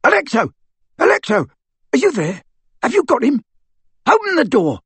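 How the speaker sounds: high, loud desperate shouting; yelling through a door. Acted. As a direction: pound the door and yell for your sister.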